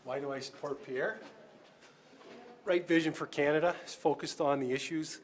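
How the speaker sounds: winded from the stairs; breathless after climbing stairs; out of breath. Real, not acted. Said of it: "Sorry, I'm out of breath there".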